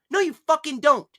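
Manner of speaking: luider en hoger, furieus; boze schreeuw. Real, not acted. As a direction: schreeuw het eruit. Woedend ontkennen na zijn excuus.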